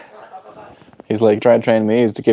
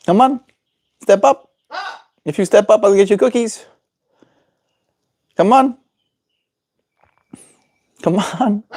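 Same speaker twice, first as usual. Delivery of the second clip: high sing-song bird coaxing; 10 semitones higher than usual. Real, not acted. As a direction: coax her up, sweetly. Coaxing parrot to step up.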